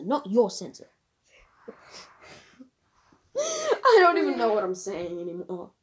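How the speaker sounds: unvoiced whisper breaking into laughter; giggly whisper. Real, not acted. Teasing her friend about the phone sensor, whispering and laughing. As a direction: whisper it while cracking up.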